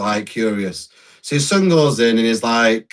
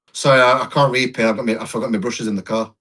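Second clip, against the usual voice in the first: dry delivery; 3 semitones lower than usual. Retold or imitated. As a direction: toss off the apology drily, as the dad. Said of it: "how dry he came out with it".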